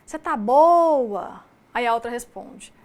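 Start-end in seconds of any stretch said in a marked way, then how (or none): 0.0-1.5 Você tá boa? cantado, bem mais alto e lento, sílabas alongadas; fala cantada mineira. Shown as a demonstration. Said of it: "um exemplo simples é falar assim". (fala cantada mineira, alongando as sílabas)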